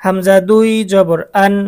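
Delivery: chant-like spelling drill with held endings; repeat-after-me drill. Shown as a demonstration. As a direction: sound out each syllable for pupils to follow. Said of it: "আমি বলার সাথে সাথে আপনারা".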